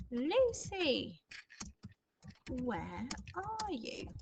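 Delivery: put-on high, drawn-out call of an old grandpa; teacher voicing grandpa calling for Lucy. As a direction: call out to Lucy from another room. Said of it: "scream that at Lucy".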